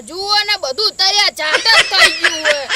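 loud, laughing at his own bad luck; bitter laughing shout. Farmer shows friend the ruined field, loud and laughing.

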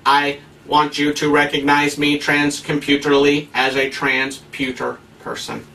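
a lightly played robot voice, slow at the end; mock computer voice. Preacher mocking trans identity in a mild robot voice. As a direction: pretend to be a talking computer, a bit stiff. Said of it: "I will talk as the voice of a computer".

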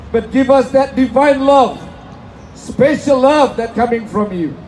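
earnest, measured prayer to God. Acted. Pastor prays over the rally crowd, earnest and measured. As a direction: lift the crowd's plea up to God.

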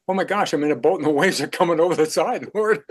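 playful mock alarm, rising on Lord; mock panic. Imitating a disciple in the storm, mock panic. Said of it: "read that story and laugh".

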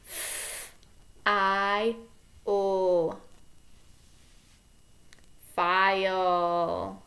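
"F, I, O" one by one, then "File" blended; sounding out. Shown as a demonstration. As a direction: segment and blend slowly. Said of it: "So it goes like this".

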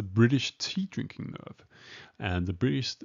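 mock-British accent, poorly done; hammed-up, not very convincing English accent; bad English accent. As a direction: attempt a posh English accent, badly. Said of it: "I'm doing a horrible English accent".

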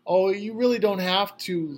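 high, slow polite protest. A narrator's reading. Lorraine politely refusing the old man's check, high and slow. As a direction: gently refuse his offer.

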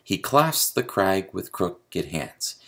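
slow "He clasps the crag with crooked hands", stressing clasps, crag, crook-, hands; measured iambic beat on "He clasps the crag with crooked hands"; iambic meter. Shown as a demonstration. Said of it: "I want you to see the meter".

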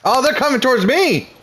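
being chased. Real, not acted. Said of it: "They're chasing me".

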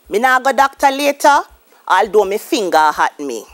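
"doctor" as "docta" and "finger" as "finga"; a Creole sentence with the final R sounds turned to A; A ending for doctor, finger. Shown as a demonstration. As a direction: end "doctor" and "finger" on an open A. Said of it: "replaced with the letter A".

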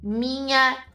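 very slow, word by word; slow dictation. Real, not acted. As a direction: stretch each word out as if typing. Dita mensagem que digita no chat. (falando bem devagar, palavra por palavra)

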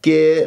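كي with spread lips, vowel tilted to e; smiling error. Shown as a demonstration. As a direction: smile through كي, narrowing the alif. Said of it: "تبتسم بالشفاه".

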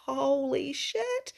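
slow, high, stunned holy shit; mock-stunned gasp of wonder; awed exclaim. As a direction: let the awe stretch it out. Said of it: "I messaged my coach and I said".

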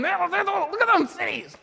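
high-pitched, laughing mock awe; laughing mockery. Shown as a demonstration. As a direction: gape at the cities, laughing at the fear. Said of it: "look at how we exaggerate things".

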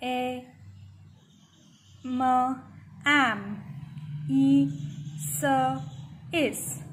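ए, म as separate letter sounds, then blended एम; phonics sounding out. Shown as a demonstration. Teacher showing kindergarten reading, ए, म, एम sounded out. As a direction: sound out ई, स apart, then join as इस. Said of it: "तब आप ऐसे पढ़ते हैं".

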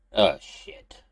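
breathy shocked whisper. Acted. Xander finds the dream cylinder in his hand, whispering. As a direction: hiss it under your breath in dismay. Realizing the dream was real.

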